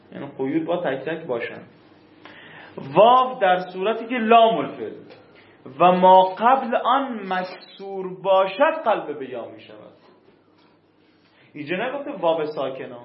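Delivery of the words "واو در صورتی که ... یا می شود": measured, emphatic dictation of a grammar rule; formal rule dictation. Shown as a demonstration. Teacher dictating a rule to students, formal and deliberate. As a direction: read the rule out firmly, phrase by phrase.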